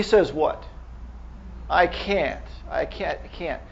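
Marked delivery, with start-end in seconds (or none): 1.7-3.6 fading refusal. Retold or imitated. Patient refusing therapy.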